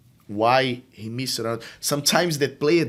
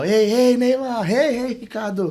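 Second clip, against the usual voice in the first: high, loud cheerful hey to both; equal energetic greeting; 12 semitones higher, 6 dB louder than usual. Shown as a demonstration. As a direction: greet every kid with the same zest.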